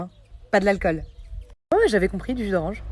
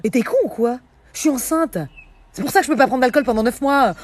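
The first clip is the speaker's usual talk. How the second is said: getting angry; 4 semitones higher, 4 dB louder than usual. Real, not acted. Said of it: "je m'énerve".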